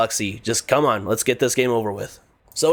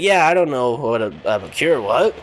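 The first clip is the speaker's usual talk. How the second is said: confused Kevin; slower than usual. Retold or imitated. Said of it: "He's like".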